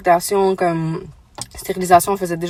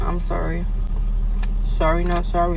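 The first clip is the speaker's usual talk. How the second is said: mouth full; 4 dB quieter than usual. Real, not acted. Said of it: "Je parle avec la bouche pleine".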